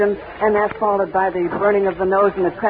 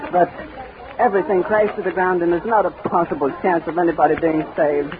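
out of breath. Real, not acted. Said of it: "see if I can get my breath again".

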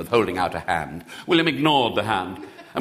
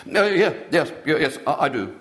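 put-on hasty boy; 3 semitones higher than usual. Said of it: "he said hastily".

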